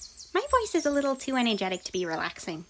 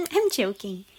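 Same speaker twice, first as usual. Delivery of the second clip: laughing; 4 semitones lower than usual. Real, not acted. Laughs after her hypnotist bit.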